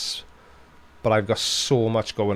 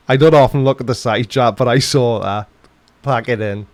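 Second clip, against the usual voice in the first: mock telling-off; 9 dB louder than usual.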